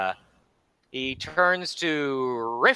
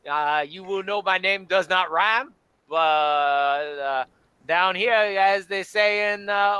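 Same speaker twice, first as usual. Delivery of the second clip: Cajun bar owner; 3 semitones higher than usual. Acted. Bar owner welcomes the hungry party to sit anywhere. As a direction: play the genial bayou cook. Bayou Jim introduces himself.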